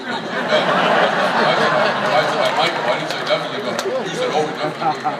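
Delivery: low-pitched mock man voice, rattled off; woman imitating man. Wife quoting her husband mid-argument, mocking low man voice. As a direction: mimic him in a dopey deep voice. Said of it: "imitate the voice of the man".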